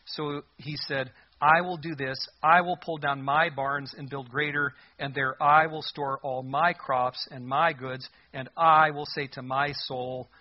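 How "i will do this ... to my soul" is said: every "I" and "my" punched loud; deliberate reading that leans hard on "I" and "my"; stress on I and MY. Shown as a demonstration. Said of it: "I wanna emphasize the words".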